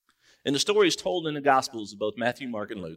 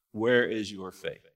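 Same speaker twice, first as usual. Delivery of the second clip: slow rebuke; 4 semitones lower, slower than usual. Acted. Jesus rebukes the disciples.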